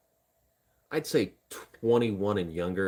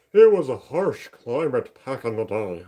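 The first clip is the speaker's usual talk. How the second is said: put-on a slow, louder, failed Russian accent; attempted Russian accent; 4 semitones higher, 9 dB louder, slower than usual. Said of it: "I can't do a Russian accent".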